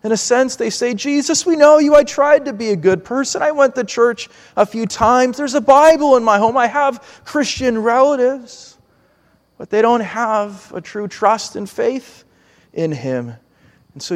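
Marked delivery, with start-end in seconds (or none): 0.9-8.8 pleading justification. Acted. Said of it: "they try to argue and justify themselves".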